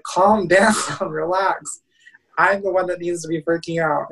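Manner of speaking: half-laughing plea to calm down; exasperated reassurance. Retold or imitated. To his panicking mom on the phone, laughing exasperation.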